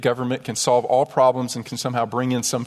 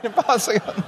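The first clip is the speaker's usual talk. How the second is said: much higher, put-on mock of the refusal; preacher mocks the waiter's stock answer in a higher voice; 9 semitones higher than usual. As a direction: parody the waiter with a sneer.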